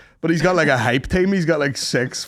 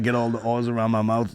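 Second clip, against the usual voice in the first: mock Italian chef; 4 semitones lower, 4 dB quieter than usual. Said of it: "and he's like".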